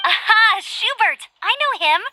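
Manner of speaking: light up at a name you know; excited recognition. Acted. Knight Amber recognizing Schubert's name, excited.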